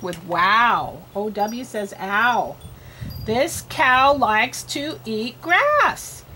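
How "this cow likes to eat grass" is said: slow, word-by-word reading; spaced-out words, one at a time; slow read-aloud. Shown as a demonstration. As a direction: read slowly for a beginning reader. Models reading for a learner.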